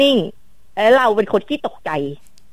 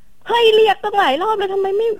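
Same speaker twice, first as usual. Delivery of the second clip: exasperated scolding; 10 semitones higher than usual. Retold or imitated. Wife scolding husband, retold.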